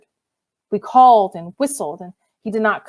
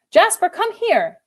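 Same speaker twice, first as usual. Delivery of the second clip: calling out; 11 semitones higher, slower than usual. Acted. Calling the dog.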